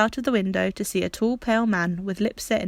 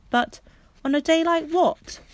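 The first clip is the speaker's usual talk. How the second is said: puzzled question; 8 semitones higher, 4 dB louder, slower than usual. Acted. Bobby puzzled.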